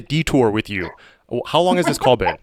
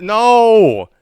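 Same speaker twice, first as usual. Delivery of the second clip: loud no; 8 semitones higher, 6 dB louder than usual. Real, not acted. Refusing again, louder.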